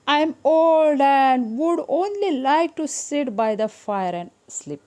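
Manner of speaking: very slow, loud, high cat voice; old cat. Acted. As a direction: sound a little weary as the old cat. (बूढ़ी बिल्ली की धीमी आवाज़)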